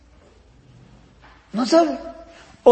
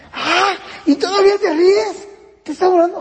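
high, indignant mock scolding; imitating angry parent; 9 semitones higher, 3 dB louder than usual. Parent scolding a nervously laughing child, indignant mock yell. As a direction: play the parent who snaps at a child for laughing.

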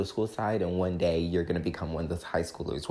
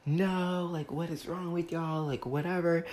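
upset retort; 10 semitones higher than usual. Retold or imitated. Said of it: "I was like".

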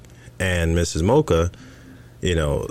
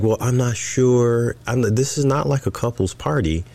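mimicking wife; 5 semitones higher than usual. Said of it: "So she's like".

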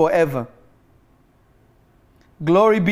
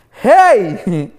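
shocked exclamation; 7 dB louder than usual. Retold or imitated. Acting out shocked reaction.

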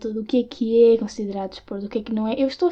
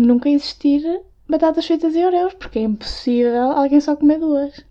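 exasperated rant; 5 semitones higher, 5 dB louder than usual. Real, not acted. Ranting about Oreo portions.

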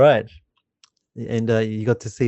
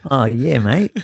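put-on a light broad Australian accent on "mate"; broad Aussie accent; 4 dB louder, slower than usual. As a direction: answer in a mock Aussie bloke accent. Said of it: "that's me doing, uh, uh, an accent".

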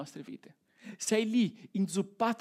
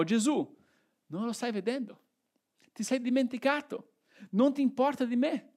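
mildly accusing plea, pitch rising to the end; accusing prayer; 3 semitones higher than usual. Acted. Praying to Jesus when the storm arrives, mildly accusing. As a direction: pray as a mild reproach to Jesus. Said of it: "queste preghiere in forma di accuse".

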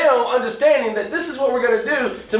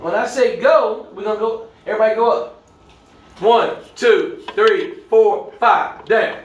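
coach voice; slower than usual. Shown as a demonstration. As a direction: count it out like a gym coach. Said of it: "I'm gonna give you my coach voice".

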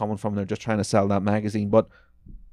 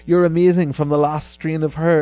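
mocking read; 7 semitones higher, 6 dB louder than usual. Mock reads a misspelled reply.

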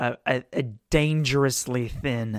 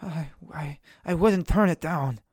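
timid captive; 3 semitones higher than usual. Acted. Prisoner shyly accepts healing.

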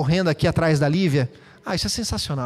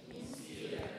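a soft unvoiced intake of air; audible breath in; 23 dB quieter, much slower than usual. Shown as a demonstration. Pastor acts out the word by breathing in audibly. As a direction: breathe in so it is heard. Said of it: "Diga comigo, inspira".

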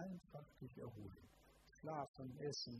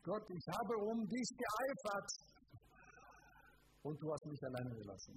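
whining; 5 semitones higher than usual. Retold or imitated. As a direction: act out a prophet's self-pitying lament. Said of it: "jammerte Gott".

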